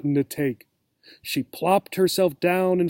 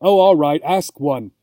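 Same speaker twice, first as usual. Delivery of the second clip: annoyed, impatient; 5 dB louder than usual. Acted. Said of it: "She sounded annoyed and impatient".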